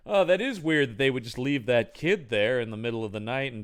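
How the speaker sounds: low-key mock line reading; underperformed dialogue. Actors piecing the mystery together, low-key underperformed delivery. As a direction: muse on it with little investment. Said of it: "perform it about like this".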